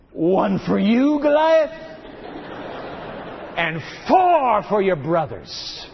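David's bold challenge, slow and deliberate, a hint of a young hero; bold statement of faith. Boy David defying Goliath, slow and bold. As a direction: proclaim it slowly, fearless. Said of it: "bold statement of faith".

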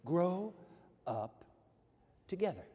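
word by word, landing on TOGETHER; "together" set apart as the key word; stress on TOGETHER. Shown as a demonstration. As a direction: pause before "together" to make it count. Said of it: "The together is important".

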